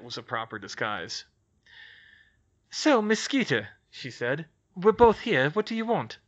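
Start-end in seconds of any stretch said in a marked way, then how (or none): 2.7-6.2 put-on crisp voice of a young witch, wary; young witch, brisk. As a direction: Hermione taking charge of a tense meeting. Hermione voiced in story.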